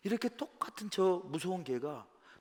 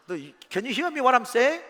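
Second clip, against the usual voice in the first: slow, loud and higher, each word hammered home; slowed-down emphatic English, louder and higher; insistent scolding; 7 semitones higher, 5 dB louder, much slower than usual. Retold or imitated. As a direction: make the owner listen, very slowly. Confronting the dog owner Bill.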